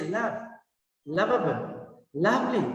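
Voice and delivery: "lovely" with a true V, no W; soft V. Shown as a demonstration. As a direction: say each V in "love, lovable, lovely" clearly. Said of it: "by your upper teeth".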